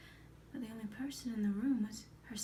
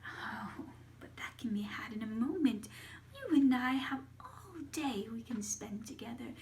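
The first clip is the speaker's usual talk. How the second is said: Baba Yaga; 3 semitones higher, 3 dB louder than usual. Acted. Baba Yaga coaxes her niece.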